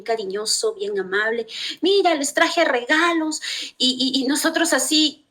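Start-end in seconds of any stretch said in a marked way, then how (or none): 1.8-3.4 1 yerno imitado. Retold or imitated.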